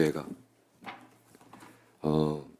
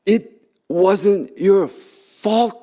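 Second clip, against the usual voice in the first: put-on high, ringing proclamation over the girl; raised and lifted on your; proclaiming; 10 semitones higher, 3 dB louder, much slower than usual. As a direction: declare it with full authority. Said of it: "선포해".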